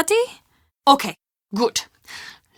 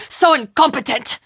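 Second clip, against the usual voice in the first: fed up, yelling at his uselessness; exasperated shout; 2 semitones higher than usual. Real, not acted. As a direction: shout it out in disgust. Fed-up rant about Carl.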